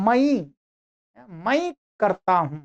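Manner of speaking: मई said as "ma-ee", as some Bihar speakers do, slowly; regional pronunciation. Retold or imitated. Teacher imitating how some Bihar speakers say मई, slowly. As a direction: imitate the regional "ma-ee" in मई करता हूं, unhurried. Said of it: "उनमें इसको ऐसे बोलते हैं".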